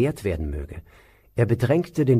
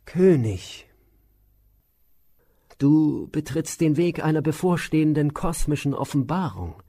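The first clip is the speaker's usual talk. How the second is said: higher, solemn counselling sage; sage Vashishta; 4 semitones higher than usual. Acted. Vashishta counsels the frightened king, solemn and raised. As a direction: reassure the king with lofty authority.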